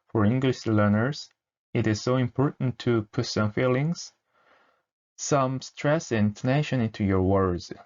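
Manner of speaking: drawn-out word-by-word reading; 아주 천천히 또박또박 읽기; very slow demo read. Shown as a demonstration. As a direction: read it very slowly for learners to follow. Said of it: "대사가 이런데".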